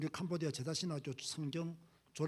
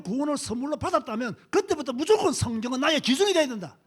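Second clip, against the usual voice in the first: preaching at full force; 3 semitones higher, 9 dB louder than usual. Real, not acted. Preacher lays down the rule to his flock, loud and emphatic. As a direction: thunder it from the pulpit.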